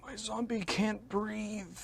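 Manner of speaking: high, slow goofy whine; silly high voice. Acted. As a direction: say it in a squeaky cartoon voice.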